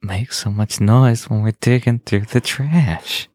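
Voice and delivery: slow, put-on Brooklyn raccoon; drawn-out comic raccoon voice; talking raccoon. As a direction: scold like a Brooklyn street critter. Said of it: "here's my raccoon".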